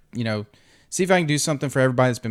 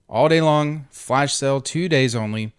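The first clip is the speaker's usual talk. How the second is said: hyped giveaway announcement. Real, not acted. Promoting flash sale to viewers.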